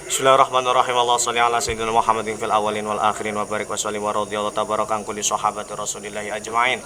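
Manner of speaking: steady, even recitation of an Arabic prayer; closing prayer. Acted. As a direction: recite the doa in one flowing line. (membaca doa penutup dengan datar dan khusyuk)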